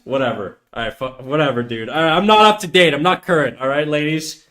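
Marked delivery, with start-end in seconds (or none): 1.9-4.4 worked-up sarcastic apology; triggered. Real, not acted. Streamer telling ladies he's not current, triggered apology. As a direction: apologise defensively with some heat. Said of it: "You sound pretty triggered?".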